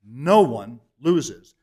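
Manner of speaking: slow and loud, NO stressed; emphasized repeat. Real, not acted. Repeating the point to the council, slow loud stress. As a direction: hammer home "No one loses" word by word. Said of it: "no, emphasize".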